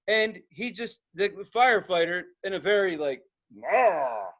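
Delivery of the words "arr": Viking grunt. Retold or imitated. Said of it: "Viking way".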